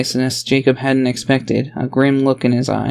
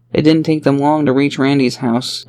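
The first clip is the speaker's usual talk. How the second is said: ordinary delivery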